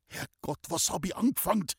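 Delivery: breathless whisper breaking into a fast high cry; horrified at what he has done; gasp, then a rushed panicked cry; blurted in horror. A narrator's reading. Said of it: "stieß er hervor".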